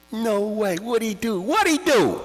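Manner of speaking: high stunned disbelief; amazed. Retold or imitated. Child amazed the stick dipped. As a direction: gasp it out in wonder.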